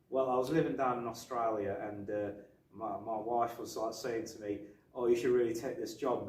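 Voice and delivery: attempted Australian accent in an easy voice. Retelling Gibson's interview, attempted Australian accent. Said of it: "I'll try and do an Australian accent".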